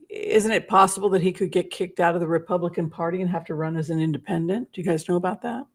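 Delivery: sniffly, nose running; runny nose. Real, not acted. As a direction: talk through a running nose. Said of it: "my nose is running".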